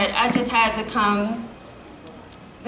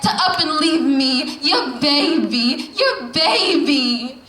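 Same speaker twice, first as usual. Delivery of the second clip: spoken word poem; 2 semitones higher than usual. Acted. Poet addressing her late mother, in a rising spoken word recital. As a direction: slam poetry delivery, rhythmic and building.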